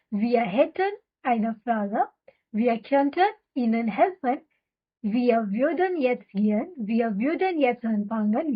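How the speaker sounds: very slow, every syllable laid out for repeating; slow drill reading. Shown as a demonstration. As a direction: read it slowly so learners can echo you. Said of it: "चलो आगे". (बहुत धीमे, साफ़ साफ़ दोहराने के लिए)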